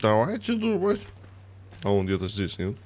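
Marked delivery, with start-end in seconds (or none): 0.0-1.0 high, slow, theatrical call to think; mock solemn. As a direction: declaim it like a pompous leader. Mock serious rallying. (пафосно и медленно)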